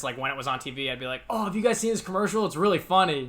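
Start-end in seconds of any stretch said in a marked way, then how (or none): 1.3-3.3 higher, overly innocent sales pitch; fake casual hint. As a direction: act innocent while dropping a hint. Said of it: "subtly bring it up to my parents".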